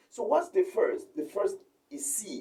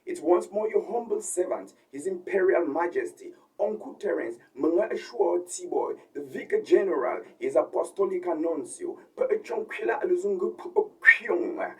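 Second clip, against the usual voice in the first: lucha libre announcer. Acted. Mock grand titles introduction.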